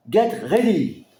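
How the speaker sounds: slow, stretched English title; drawn-out title. Real, not acted. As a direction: savor the song title slowly. Title said slowly, unlike his voice. (titre anglais étiré lentement)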